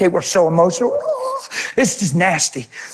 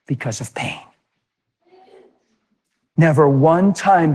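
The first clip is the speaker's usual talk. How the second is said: tender God; 4 semitones lower than usual. Retold or imitated. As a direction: gently tell her the hard truth. God speaks tenderly to Kim.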